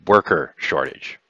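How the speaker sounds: "worker" set apart with odd emphasis; strange emphasis. Acted. He explains the plague's labour shortage, "worker" oddly stressed. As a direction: lean strangely on the word "worker". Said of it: "puts a strange emphasis on the word worker".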